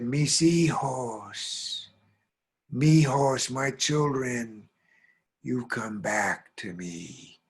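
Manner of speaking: slow, drawn-out mournful call; plaintive, sad voice. Acted. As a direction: call sorrowfully for lost children, stretching each phrase. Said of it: "Plaintive, sad voice".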